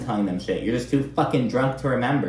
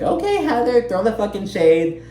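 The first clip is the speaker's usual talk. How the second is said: sarcastic quote; 11 semitones higher, 3 dB louder than usual. Retold or imitated. Mock reaction to Heather's shade.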